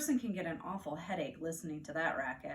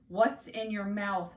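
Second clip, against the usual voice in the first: slow, louder firm question; stern question; 6 dB louder, slower than usual. Acted. Mother questions Fudge chewing something, slow firm and louder. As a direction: demand an answer from the toddler. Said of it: "my mother asked".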